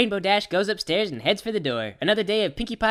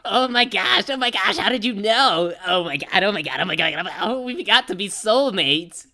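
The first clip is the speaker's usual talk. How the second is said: excited gush; 3 dB louder than usual. Acted. Dash thrilled at theme song.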